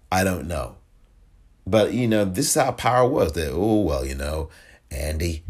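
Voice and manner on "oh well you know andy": lightly voiced senior politician, easing in reluctantly; a hint of an impersonated party elder; Chuck Schumer. Senator reluctantly starting a talk with the governor, lightly impersonated. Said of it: "trying to do my Cuomo, my, uh, Schumer voice".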